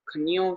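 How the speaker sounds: खन्यो as khani-yo, with an i; common mispronunciation. Shown as a demonstration. Teacher quoting the congregation's mistake, खन्यो as khani-yo. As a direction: slip an i into खन्यो before yo. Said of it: "अक्सर औकात कुछ संगत कह देती हैं".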